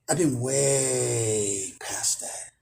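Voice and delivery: a slow, breathy whisper, dismissive. Real, not acted. A slow whisper to viewers, brushing off the thieves. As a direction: hush it down to a slow aside.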